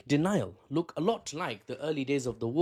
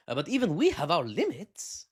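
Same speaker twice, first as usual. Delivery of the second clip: mock Arab accent; 2 semitones higher than usual. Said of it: "I don't know if that's an Arab accent".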